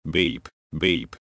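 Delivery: flat mechanical beeps; tape beeping imitated. A narrator's reading. Narrator mimics the tape's final beeps, mechanical. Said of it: "beep went the tape".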